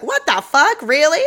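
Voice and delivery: high, loud incredulous cry; mock outrage. Reacting to the deportation story, high incredulous outrage. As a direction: disbelief thrown up at the screen. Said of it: "I was like".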